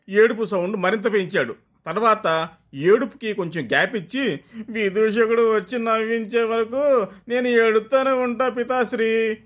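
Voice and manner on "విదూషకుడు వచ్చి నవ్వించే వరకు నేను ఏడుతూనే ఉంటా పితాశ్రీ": declaring prince. Acted. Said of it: "అని declare చేసి".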